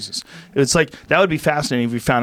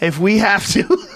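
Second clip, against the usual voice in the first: slow, higher-pitched British movie voice; mock British accent; 5 semitones higher than usual. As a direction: draw it out in a put-on British accent. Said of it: "would talk like British people".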